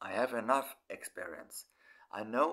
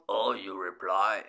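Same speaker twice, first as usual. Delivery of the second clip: lower, louder "Oh, you reply" snapped back; sharp retort; 5 semitones lower, 5 dB louder than usual. Retold or imitated. Girlfriend firing his words back at him, mock snappish. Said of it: "she shot".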